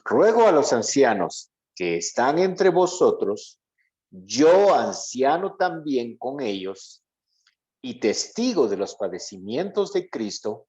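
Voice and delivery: measured, deliberate Bible reading, slightly slowed; scripture reading. Acted. Pastor reading Peter's letter to the class, measured and solemn. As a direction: read the verse aloud to the group.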